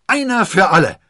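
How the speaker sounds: high, loud battle cry; ringing, victorious yell; triumphant shout. A narrator's reading. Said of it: "triumphierend rief".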